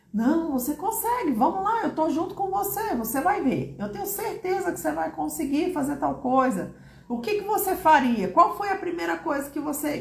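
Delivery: acted parent coaxing a child; encouraging parent.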